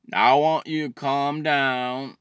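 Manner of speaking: slow, lightly voiced mock therapist; calming therapist. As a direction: draw it out to pacify someone. Plays therapist calming him down.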